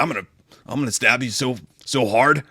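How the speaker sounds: halting, half-hearted seductive threat; inept dirty talk. Retold or imitated. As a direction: imitate someone fumbling through pillow talk. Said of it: "someone trying to talk dirty in bed, but they're just not good at it".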